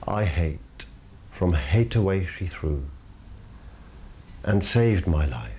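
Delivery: measured, slow reading of verse; solemn verse reading; poem recitation. Acted. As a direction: read the sonnet with weight. Recites the sonnet.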